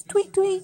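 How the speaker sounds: high little bird chirps; bird tweet. Acted. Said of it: "The bird says".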